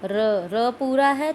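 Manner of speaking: र पूरा है said slow and loud, each sound drawn out; slow stressed demo. Shown as a demonstration. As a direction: stretch out र पूरा है loudly for the class. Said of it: "अब हम बोलेंगे तैयार". (धीमे और ज़ोर से खींचकर बोलना)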